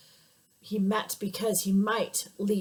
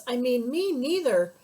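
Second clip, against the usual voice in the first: tiny little voice; 3 semitones higher than usual. Acted. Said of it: "said a tiny little voice".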